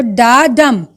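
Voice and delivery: "da dum" slowly, as two separate beats; iambic rhythm demo. Shown as a demonstration. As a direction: spell out the foot slowly: da, dum. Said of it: "da is an unstressed syllable".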